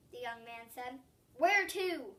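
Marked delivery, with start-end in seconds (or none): 1.4-2.1 tense. A narrator's reading. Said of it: "Juan asked tensely".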